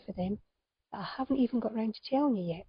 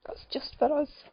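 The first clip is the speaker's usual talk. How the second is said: whispered thought; 4 semitones higher than usual. Retold or imitated. Retold private thought, whispered.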